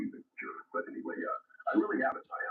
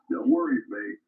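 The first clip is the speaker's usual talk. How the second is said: put-on Australian accent; 2 semitones higher, 8 dB louder than usual. Operator signs off to his Aussie friend in Australian accent. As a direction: throw out a cheery mock Australian accent. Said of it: "my accent's terrible".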